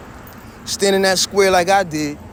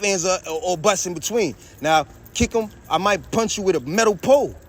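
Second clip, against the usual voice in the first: raised, higher-pitched heated threats; getting louder and angrier with each threat; loud angry rant; 3 semitones higher than usual. Real, not acted. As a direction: work yourself up, taunting the enemy. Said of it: "Salaki, I'm loud. I'm getting angry".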